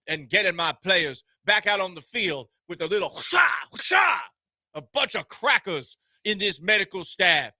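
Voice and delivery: lightly put-on Southern drawl; hint of a Southern lawyer accent. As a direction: plead like a Southern courtroom lawyer. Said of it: "I've added a little Southern drawl here".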